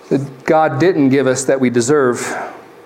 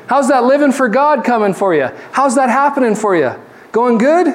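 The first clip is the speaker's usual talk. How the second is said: cheerful brotherly greeting; 7 semitones higher than usual. Pretend. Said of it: "we should say to each other".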